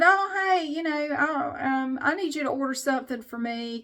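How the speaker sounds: imitating dad. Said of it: "and he said".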